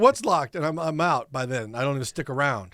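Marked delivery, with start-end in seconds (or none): 0.0-0.5 mock bafflement. Imitating the baffled crew's reply.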